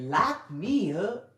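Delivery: lightly voiced pretend plea; a hint of Wendy begging to be locked up; mock Wendy quote. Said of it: "As if Wendy Williams said".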